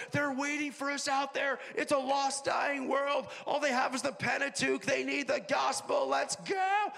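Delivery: pep talk shout. Retold or imitated. Preacher imagining rallying the seventy before their mission, rallying shout. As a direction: send the troops out fired up.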